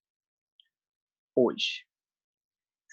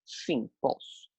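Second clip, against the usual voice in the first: answering herself; 7 dB quieter, much slower than usual. Shown as a demonstration. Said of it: "Eu posso sinalizar?".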